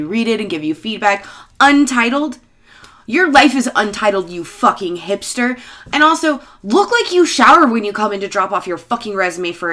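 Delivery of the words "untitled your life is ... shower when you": exasperated rant. Real, not acted. Ranting at the hipster.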